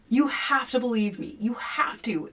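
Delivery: urgent whispered plea; desperate whisper. A narrator's reading. William whispering to Kevin, desperate plea. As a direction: whisper it, begging.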